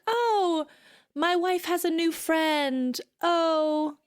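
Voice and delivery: high, slow, cheerful oblivious husband. Retold or imitated. Quoting Heck as a high, sweetly oblivious husband. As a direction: pitch it up, sweetly clueless. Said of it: "he's like".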